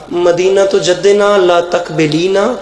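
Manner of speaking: slow, measured recitation of an Arabic couplet; slow Arabic verse recitation; elegy recitation. Acted. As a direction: draw the verse out slowly, mournfully.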